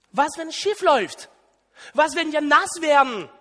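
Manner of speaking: mock the doubter who waves off risk; skeptical objector. Preacher voices a skeptic mocking Peter's daring, needling. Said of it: "solche Bemerkungen gehört".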